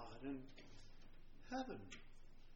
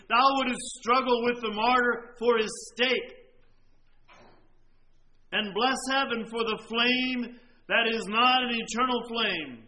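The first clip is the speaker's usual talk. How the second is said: louder, stressing half and not; emphatic repeat; 2 semitones higher, 7 dB louder than usual. Shown as a demonstration. Preacher repeats the quote to the congregation, louder and emphatic. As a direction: hammer the words half and not home. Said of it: "Do you catch that?".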